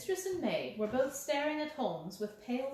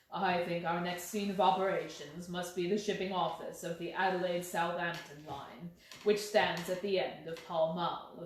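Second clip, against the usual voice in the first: calm insistent Holmes; 5 semitones lower than usual. Acted. Holmes plans next step.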